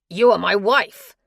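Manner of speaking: he begs her to stay, pressing hard; begging husband. Acted. Husband insists.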